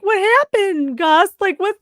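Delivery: high-pitched mock panic; mock freaking out. Retelling the audience asking Gus, mock freaked-out high voice. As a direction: imitate a bewildered crowd, voice shooting up. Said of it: "And everyone's freaking out".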